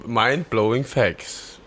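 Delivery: announcer voice. Pretend. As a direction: call it out like a show title. Announcing a segment title.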